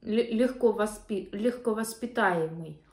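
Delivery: words muffled by food; speaking with food in mouth; talking while chewing. Real, not acted. Seen 1: Bit a nugget at -3; lips work as if chewing while she speaks.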